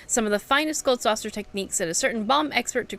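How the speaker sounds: lightly voiced grand showman, proclaiming; a hint of a theatrical course master; announcer NPC voice. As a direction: read it like a boastful arena host. Reads game NPC dialogue aloud.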